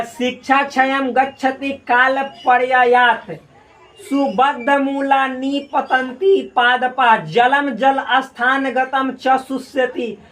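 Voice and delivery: slow, measured chanting of a Sanskrit shloka; slow verse recitation. Shown as a demonstration. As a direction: recite it deliberately, line by line. Reads the Sanskrit verse aloud.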